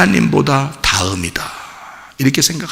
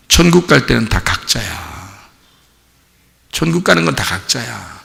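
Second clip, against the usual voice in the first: whisper; 3 semitones lower, 5 dB quieter than usual. Real, not acted.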